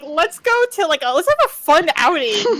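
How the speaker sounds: high mocking sing-song; chirpy fake cheer; mocking Angelo. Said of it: "And then being like".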